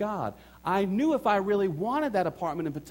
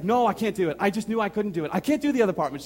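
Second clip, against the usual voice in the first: firm refusal; 5 semitones higher, 6 dB louder, faster than usual. Retold or imitated. Wife refusing the apartment.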